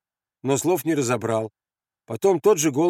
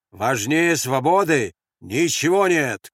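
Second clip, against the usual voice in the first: slow, raised proclamation; shouted slogan; 2 semitones higher, 4 dB louder, slower than usual. Acted. Grenade thrower proclaiming freedom above all, shouting. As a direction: declare it to him firmly. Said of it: "крикнул гранатомётчик".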